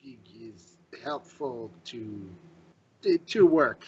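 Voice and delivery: halting, groping bad Elvish accent; broken Elvish. Newcomer answering the elf about the sword, halting broken Elvish. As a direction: search for each word in broken Elvish. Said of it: "how to say this broken".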